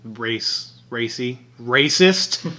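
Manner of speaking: Race, Racy, Racist built up syllable by syllable; sounding out words. Shown as a demonstration. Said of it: "sound out the word".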